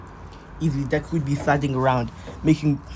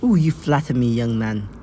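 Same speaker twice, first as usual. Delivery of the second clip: put-on flattered older heroine; 2 semitones lower than usual. Nurse heroine to the young man, mock-flattered coo. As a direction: play a flattered old lady, sliding downward. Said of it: "She'd be like".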